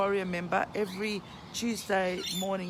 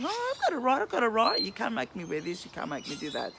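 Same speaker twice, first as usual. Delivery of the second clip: high, mocking whine of someone claiming rights; mock whiny protester; 4 semitones higher than usual. Mocking protesters to viewers, a high sneering whine. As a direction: parody the rights crowd, pitched up. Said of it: "so that you keep saying".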